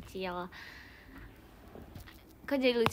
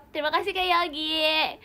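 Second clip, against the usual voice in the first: teriakan terima kasih; 3 semitones higher, 6 dB louder than usual. Real, not acted. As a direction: call out thanks, stretching the name loudly. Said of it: "jadi kita teriakin gitu". (seruan terima kasih, namanya dipanjangkan)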